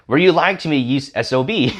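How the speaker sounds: half-voiced indignant outburst; retold screaming wife. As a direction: imitate a wife's shrieked accusation without really yelling. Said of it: "And she starts screaming".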